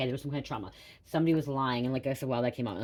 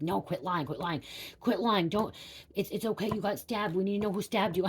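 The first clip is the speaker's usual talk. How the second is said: higher, insistent cop voice; mock pushy policeman, pitched up; disbelieving police; 6 semitones higher than usual. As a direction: press her like a skeptical officer. Police insisting she is lying.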